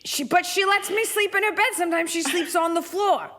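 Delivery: high put-on cat voice; Gracie. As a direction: gripe like a put-upon cat. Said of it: "This is Gracie".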